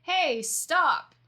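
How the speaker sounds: high, loud call after the thief; mock shout. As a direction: yell it as if chasing. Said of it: "be like".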